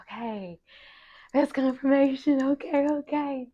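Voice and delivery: hushed first word, then high put-on squeak; high-pitched self-reassurance. Student reacting to her parents' confirmation, high-pitched self-reassurance. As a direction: act out a high, reassured "okay, okay".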